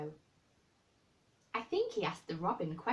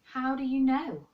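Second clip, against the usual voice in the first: unsympathetic; 8 semitones higher, 11 dB louder than usual. Acted. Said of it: "said Mary unsympathetically".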